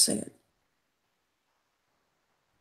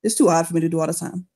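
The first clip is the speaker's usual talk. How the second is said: put-on Creole accent. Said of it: "He has a thick Creole accent".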